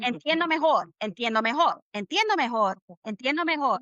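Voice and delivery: "Entiendo mejor" looped in the same rhythm; chant-like repeats of "Entiendo mejor"; repetitive drill. Shown as a demonstration. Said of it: "You have to say that whole phrase, like, twenty times".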